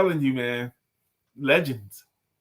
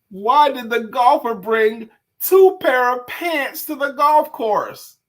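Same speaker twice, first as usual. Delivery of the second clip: slow joke setup; 6 semitones higher, 6 dB louder, slower than usual. Acted. Setting up a joke.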